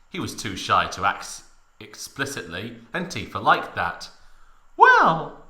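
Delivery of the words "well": very high, loud drawn-out falsetto; hidden excitement. Acted. Tifa starting a request to Cloud, coy falsetto. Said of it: "trying to hide her excitement".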